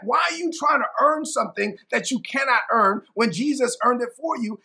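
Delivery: acted-out apostle's rebuke; frustrated. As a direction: plead the point in frustration. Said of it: "this is why it frustrated Paul".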